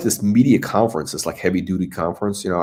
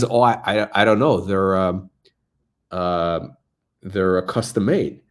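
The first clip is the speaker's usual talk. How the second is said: ordinary talk, nothing marked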